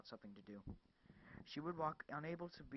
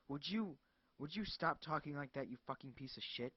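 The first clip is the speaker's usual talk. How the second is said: screamed; 2 semitones higher than usual. Acted. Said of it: "she screamed".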